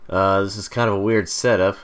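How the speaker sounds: distant, off-mic voice; far from mic. Real, not acted. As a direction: talk from across the room. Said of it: "forgive me if I sound a little far away".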